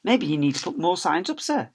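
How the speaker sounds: sly, teasing offer to the teacher; smirking suggestion. Acted. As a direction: needle him with a grin in the voice. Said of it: "suggested Rebel with a smirk".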